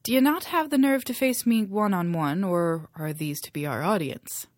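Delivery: Irish brogue, challenging; a bolder Irish lilt; thicker Irish brogue. Acted. Liam daring the queen, in a thicker Irish brogue. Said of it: "his Irish brogue growing thicker".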